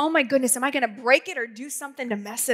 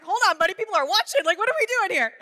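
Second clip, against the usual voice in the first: higher, half-whispered embarrassed aside; 6 semitones higher, faster than usual. Retold or imitated. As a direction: hush him as people watch. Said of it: "And I'm like".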